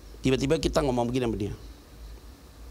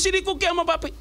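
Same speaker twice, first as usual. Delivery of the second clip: a touch higher, coaxing call; calling the dog; 13 semitones higher than usual. Retold or imitated. Dad calling the dog to come to him, lightly coaxing. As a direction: lightly call the puppy over. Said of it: "Saya panggil".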